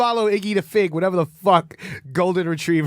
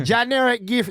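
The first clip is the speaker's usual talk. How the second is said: put-on Jamaican accent, higher; 5 semitones higher than usual. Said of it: "You want me to do Jamaican girl?".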